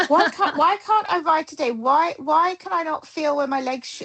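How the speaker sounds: high, flustered self-questioning; mock panic. Rider questions herself at warm-up, in high mock panic. Retold panicky thoughts in the saddle.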